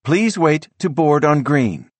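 high, slow automated announcement; computerized announcer voice. A narrator's reading. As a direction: read it like a train's recorded voice. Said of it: "that computerized female voice says".

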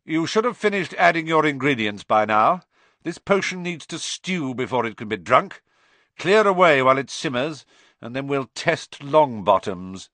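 loud, high call to the class. Acted. Snape calling out to the whole class, loud and cold. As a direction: call across the dungeon. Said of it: "Snape called".

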